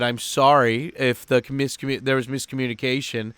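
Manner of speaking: understated, composed apology; calm. Retold or imitated. Apologizing to his buddy as the bigger man, calm. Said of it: "but I was calm".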